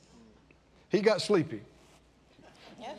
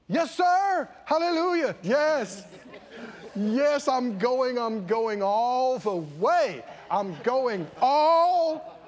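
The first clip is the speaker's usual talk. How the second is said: hammed-up eager promise; 3 semitones higher, slower than usual. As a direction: ham up an overeager yes. Eager son shouting agreement.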